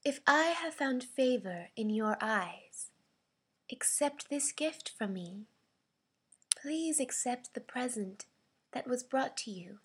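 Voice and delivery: understated regal composure, softened; regal, royal. Shown as a demonstration. Voice actor's audition read of offering a gift, mildly regal. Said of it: "This is my regally, royally read".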